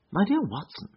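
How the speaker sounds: light high voice for a disguised friend; lightly voiced Holmes. A narrator's reading. Holmes surprises Watson on the train, lightly voiced and high.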